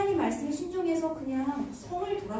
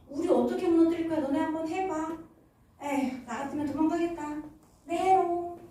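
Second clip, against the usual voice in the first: taunting the enemy, pitched up and lively; hammed-up, teasing ridicule; acted mockery; 2 semitones higher, 3 dB louder than usual. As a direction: play a jeering onlooker. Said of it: "조롱도 했을 거예요".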